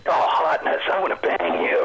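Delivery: breathy-whispered Snake parody line. Pretend. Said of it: "That's from Metal Gear Awesome".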